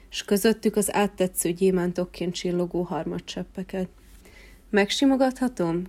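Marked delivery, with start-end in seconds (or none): 4.7-5.8 timid request. Acted. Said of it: "kérdezte".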